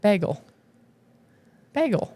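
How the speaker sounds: "Bagel" said BAG-ul, with a short a; a real Midwestern BAG-ul for "Bagel"; Midwestern pronunciation. Real, not acted. Co-host repeating the questioned word, Midwestern "Bagel" as BAG-ul. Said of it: "You are saying it so Midwestern".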